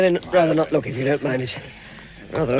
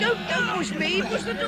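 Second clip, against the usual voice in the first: alarmed protest; 12 semitones higher than usual. Acted. Squeezed on a narrow ledge.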